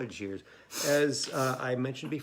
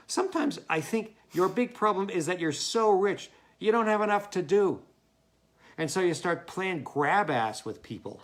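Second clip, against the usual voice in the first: scolding letter; 4 semitones higher, 4 dB louder than usual. Acted.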